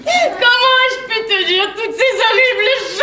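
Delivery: wailing, tearful self-reproach; crying. Acted. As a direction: sob out your remorse theatrically. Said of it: "Arrête de pleurer". (lamentation en pleurant)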